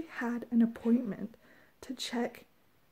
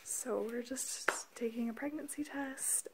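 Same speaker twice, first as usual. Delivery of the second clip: whispering; 6 dB quieter than usual. Real, not acted. Quiet house, child asleep.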